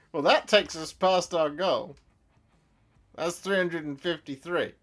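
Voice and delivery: thrilled to pass the goal; excited announcement. Real, not acted. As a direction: savour the milestone aloud. Stream goal just passed.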